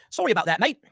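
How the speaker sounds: light mock Australian accent on "Sorry about that, mate"; a casual Australian apology, only lightly done. British guy apologizing to Irish guy, light Australian accent. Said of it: "Or I think that was Australian".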